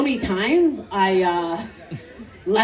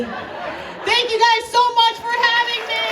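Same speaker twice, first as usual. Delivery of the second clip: upbeat sign-off; 13 semitones higher than usual. Real, not acted. Signing off.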